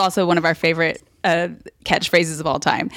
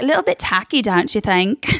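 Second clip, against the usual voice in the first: bitchy, taunting; 3 semitones higher than usual. Acted. Contestant in his talking head, taunting. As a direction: taunt dressed as a polite question. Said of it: "That's, like, almost taunting".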